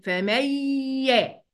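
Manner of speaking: "فمن يا" with the n dropped into a long nasal y; nun merged into ya. Shown as a demonstration. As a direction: say "فمن يا" as fa-mayyy-ya. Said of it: "هقولها كده".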